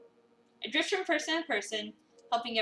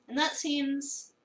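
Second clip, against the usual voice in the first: drifting off; much slower than usual. Acted. Narrator dozing off mid-sentence.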